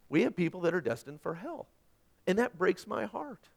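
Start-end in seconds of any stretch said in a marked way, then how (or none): none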